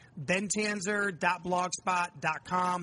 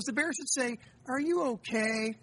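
put-on young son's voice; 5 semitones higher than usual. Father voicing young son's answer.

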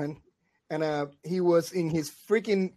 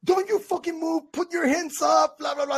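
threat; 10 semitones higher than usual. Retold or imitated. Retold threat to intruders.

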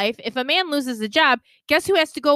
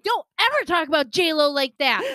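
fired-up warning; 5 semitones higher than usual. Retold or imitated. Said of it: "you could see she was fired up".

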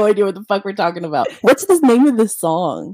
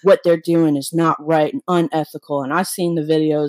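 imitating Joey; 4 semitones lower than usual. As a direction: lower voice, playing her husband. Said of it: "and he's talking just like that".

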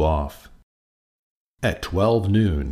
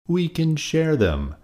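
open and friendly; 10 semitones higher than usual. A narrator's reading. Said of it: "suggested the friendly ladybug".

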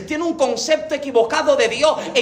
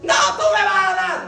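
put-on scared child; 8 semitones higher than usual. Child fears mother's spanking.

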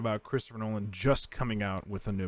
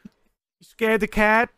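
loud exclaim; 9 semitones higher, 8 dB louder than usual. Real, not acted. Sudden loud remark.

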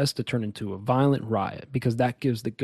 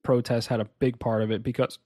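hiccups. Real, not acted. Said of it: "I got the hiccups today".

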